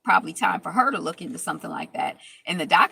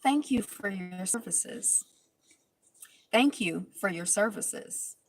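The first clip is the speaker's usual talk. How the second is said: slow, softer, cool dismissal of a cast member; imitating Shawnee; 4 dB quieter, slower than usual. Recap host mimics Shawnee's icy goodbye, slow and soft. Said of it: "my favorite side of Shawnee was when she was like".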